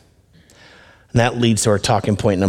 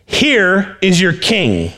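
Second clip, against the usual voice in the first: slow presentation; 8 semitones higher, much slower than usual. Acted. Pilate presents Jesus.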